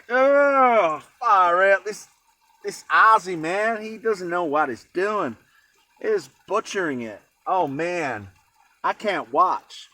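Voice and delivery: dismayed American drawn-out groaning; American accent. Acted. Imagined American viewer appalled at the Aussie's cooking, mock American accent. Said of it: "That's my American accent".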